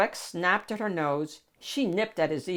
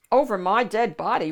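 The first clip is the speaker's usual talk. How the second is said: mild mock roar from the knight; a touch of a knightly roar; 3 semitones higher, 6 dB louder, faster than usual. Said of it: "roared the fearless knight".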